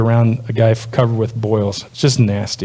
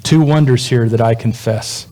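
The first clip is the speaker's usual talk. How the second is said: poem reading. Acted. Reads song lyrics as a poem.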